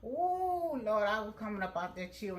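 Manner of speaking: loud, high cry of remembered pain; reliving the pain. Retold or imitated. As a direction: belt it out like the burn is back. Reliving painful relaxer burn.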